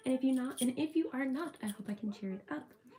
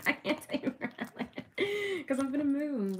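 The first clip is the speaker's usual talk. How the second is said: laughing through words; 5 semitones higher than usual. Real, not acted. Vlogger to viewers about moving, laughing through it. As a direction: speak through leftover giggles. Still laughing after slip.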